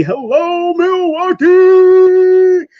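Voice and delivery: high, loud, slow, drawn-out hello; stretched call. Real, not acted. Host greeting Milwaukee viewers on livestream, long high loud call. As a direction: stretch out the city name like an arena announcer.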